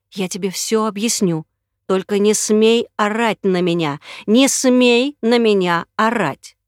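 building from calm to loud threat; man silencing her, threatening; menacing. Acted. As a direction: warn her, then snap. Man threatens screaming woman.

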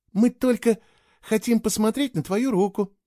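put-on high, reassuring girl's voice; trying to soothe. A narrator's reading. Girl calming the nervous boy, soothing. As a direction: reassure him it is harmless. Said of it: "попыталась успокоить его Кейла".

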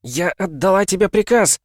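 high, forceful yell; commanding high shout; shouted order. A narrator's reading. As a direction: pull rank at full voice. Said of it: "крикнула она".

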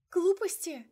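high, loud sobbing outburst; sobbing cry. A narrator's reading. Heroine sobs into his coat, crying out loud. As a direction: wail the word through tears. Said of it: "рыдала я".

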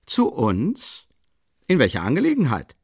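leicht lauter, jovial; Ausruf des Leutnants. A narrator's reading. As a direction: munter hinüberrufen. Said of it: "rief Ilja Petrowitsch aus". (Ilja Petrowitsch ruft Raskolnikow gut gelaunt an)

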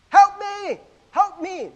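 high, loud desperate cry for help; kid yelling for help. Acted. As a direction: scream it like a child stuck in a well. Kid yelling amid wolves.

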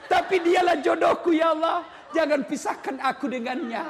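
praying while angry. Acted. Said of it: "marah sambil berdoa".

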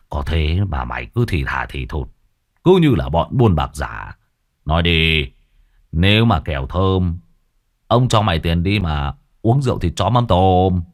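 put-on low, smug old village chief; pleased old chief. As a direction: gloat and promise a reward. (giọng lão Lý khoái chí, trầm)

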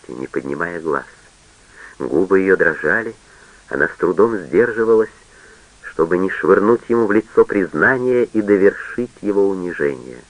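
plain reading voice

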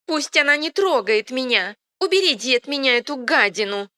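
high, loud crone shriek; old woman's panicked screeching. A narrator's reading. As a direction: scream at them to take her away. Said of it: "резко завизжала старуха".

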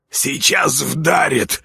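slow, resigned; slow hopeless sigh of a line; doomed. Acted. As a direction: say it like there is no escape. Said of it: "обречённо подвёл итог мельник".

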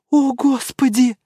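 slow, high moaning. Acted. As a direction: moan it out in horror. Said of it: "простонала пожилая дама". (пожилая дама стонет от ужаса)

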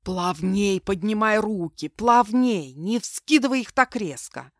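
annoyed instructor yelling, slow; irritated shout. Acted. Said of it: "раздражённо кричала Зарина".

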